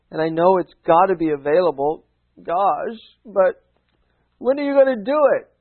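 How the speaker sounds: hammed-up pleading, rising to an exasperated peak; impatient believer. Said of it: "That's what they think".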